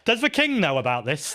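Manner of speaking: a half-hearted, lightly put-on Cunk accent, barely shifted; terrible Philomena Cunk accent. Speaker quotes Philomena Cunk on Buckingham Palace, in a weak mock accent. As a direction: toss off a bad impression of the comedian's deadpan accent. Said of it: "That was a terrible accent".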